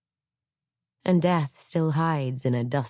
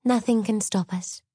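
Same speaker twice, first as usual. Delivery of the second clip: maiden voice; 8 semitones higher than usual. Acted. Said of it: "said the maiden".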